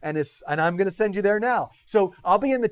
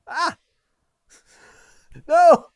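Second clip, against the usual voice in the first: surprised; 12 semitones higher, 10 dB louder than usual. Real, not acted. Click fails.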